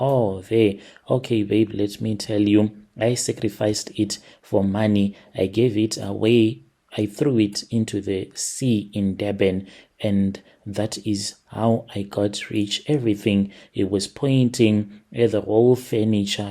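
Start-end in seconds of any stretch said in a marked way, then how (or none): none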